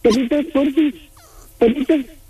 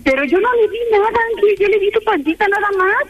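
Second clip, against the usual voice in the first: startled disbelief; 6 semitones higher than usual. Real, not acted. Startled by tattoo claim.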